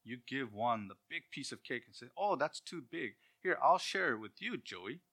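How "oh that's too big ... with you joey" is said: high, bright mock-generous child voice; hammed-up generous kid; sweet sharing sibling. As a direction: sound sugary and giving.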